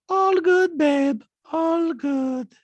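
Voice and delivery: high, loud, eerie reassurance; creepy detached all-clear; Diana. Retold or imitated. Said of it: "And she goes".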